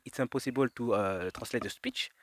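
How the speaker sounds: slow English with a French accent. Shown as a demonstration. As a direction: translate haltingly in a French accent. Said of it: "traduire cette phrase, par exemple, en anglais". (anglais avec accent français)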